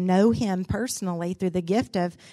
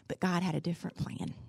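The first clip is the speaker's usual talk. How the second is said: tearful mother; 6 dB quieter, faster than usual. Retold or imitated. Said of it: "she started crying".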